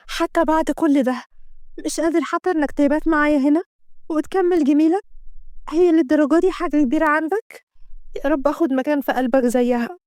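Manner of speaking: put-on bitter girlfriend begging for a place; a hint of jealous mistress; hurt young woman. Kenda reproaching Assem.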